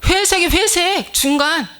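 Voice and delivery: high, slow sneer at grey; mocking disdain. Preacher mocking grey clothing of monks and nuns, slow and high. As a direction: drag it out with scorn.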